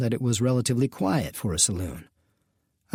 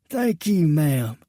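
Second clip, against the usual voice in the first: polite; 4 semitones higher, much slower than usual. Acted. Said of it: "Reuben said politely".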